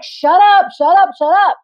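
a frustrated mock yell; shouting shut up. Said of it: "everybody's just like".

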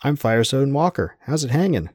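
high surfer-dude greeting. A narrator's reading. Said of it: "Surfer voice piped up".

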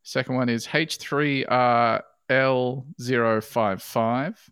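slow, careful letter by letter; spelling it out. Real, not acted. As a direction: read each character out deliberately. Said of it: "I'll spell them all out for you".

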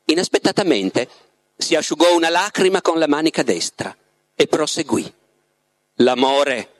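measured literary narration with pauses; story narration. A narrator's reading. The Master recounts his love to Ivan, measured storytelling. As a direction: read the Master's tale unhurriedly, phrase by phrase. Reads the novel aloud, as the Master.

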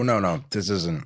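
ordinary talk, nothing marked

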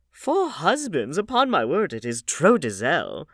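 high, slow, scandalised exclamation; shocked old lady. A narrator's reading. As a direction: gasp it out in mock horror. Hostess shocked.

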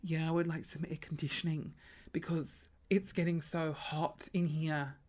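soft, breathy-free low seductive put-on; a hint of a sultry homeowner; mock alluring. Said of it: "being, like, alluring".

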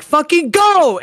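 high-pitched mock urging; urgent exasperation. Frustrated viewer urging on a film character, mock exasperated. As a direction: egg on a character who can't hear you.

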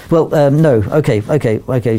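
mildly flustered, giving in; a bit flustered. Retold or imitated. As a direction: imitate someone slightly thrown, then agreeing. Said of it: "flustered a bit".

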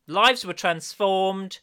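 mock grand proclamation.

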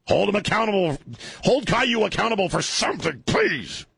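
high, whiny mock plea; squeaky mocking voice of the ex-wife. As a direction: mimic her nagging in a high voice. Mimicking ex-wife's pleading demand.

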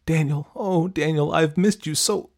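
high, gushing greeting; eager. A narrator's reading. Girl grabbing phone from mom to greet boyfriend, eager. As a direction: rush out the longing at high pitch. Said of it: "She eagerly grabbed the phone".

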